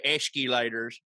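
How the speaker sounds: "escalators" said as "eshkee-laters"; imitated twangy "escalators", the middle turned to "kee"; East Tennessee pronunciation. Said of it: "I've only ever heard someone from East Tennessee say".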